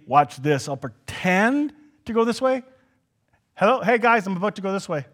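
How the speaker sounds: lightly voiced Jesus, slyly casual; hint of a mischievous wave-off; playful pretending Jesus. Jesus teasing the two travelers, mildly sly. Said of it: "Jesus did the".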